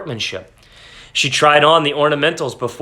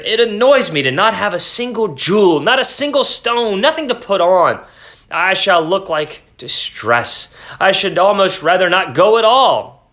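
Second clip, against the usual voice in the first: wife voice; 5 semitones higher than usual. Acted. Wife complains, higher voice.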